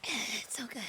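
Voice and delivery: whispered, winded by tequila; strained after a shot. Real, not acted. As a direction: breath-only whisper. Just downed a tequila shot.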